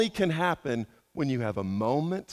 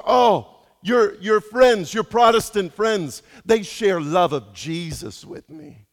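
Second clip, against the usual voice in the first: put-on slow, light Croatian accent with emphatic Oh; a hint of a Croatian driver recalling kind passengers; made-up Croatian accent; slower than usual. Pastor imitates the Croatian driver praising his Protestant friends, slow accent. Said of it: "I don't know how to do a Croatian accent".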